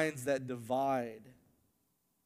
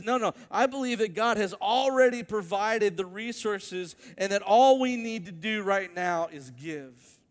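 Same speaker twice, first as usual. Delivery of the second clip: insistent retold; 5 semitones higher, 5 dB louder than usual. Tony insists they give.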